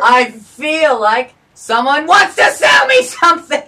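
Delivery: slow, drawn-out mock outcry; mock panicked yell. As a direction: yell it out like a fleeing victim.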